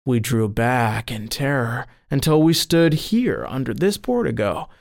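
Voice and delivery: plain reading voice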